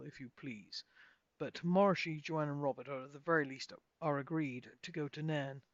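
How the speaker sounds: a lightly voiced grave wizard deciding the party's path; measured wizard. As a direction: speak like a wise old counsellor.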